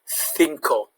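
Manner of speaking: cinco said as thinko; cinco with a lisped th start; Spanish C as th. Shown as a demonstration. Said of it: "th sound".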